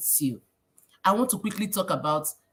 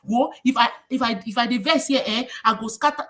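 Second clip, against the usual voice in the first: raised-pitch angry public threat; half-shouted angry outburst, mimicked; mock shouting; 4 semitones higher, 3 dB louder than usual. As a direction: act out someone shouting in anger. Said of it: "and you're shouting".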